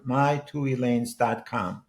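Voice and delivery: "my two elaines dot com" said slowly and clearly; dictating the web address; slow careful address. Shown as a demonstration. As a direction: spell out the website name. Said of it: "all one word".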